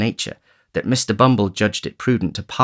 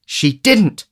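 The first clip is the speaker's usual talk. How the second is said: Oliver; 11 semitones higher, 5 dB louder than usual. A narrator's reading.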